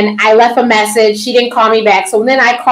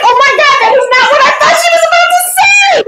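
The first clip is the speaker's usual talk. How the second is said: high laughing disbelief, much higher; shocked; faster than usual. Retold or imitated. Retelling her biopsy news, high shocked laugh.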